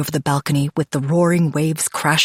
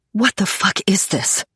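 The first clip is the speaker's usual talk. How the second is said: sudden shocked outburst; blurting out; 4 semitones higher than usual. A narrator's reading. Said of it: "I blurt".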